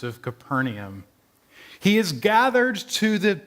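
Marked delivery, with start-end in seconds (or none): 1.8-3.4 lightly voiced rabbi, pitched a little up; a hint of a rabbi at a burial; rabbi's pronouncement. Rabbi speaking over Matthew's buried father, lightly voiced pronouncement. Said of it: "the rabbi said".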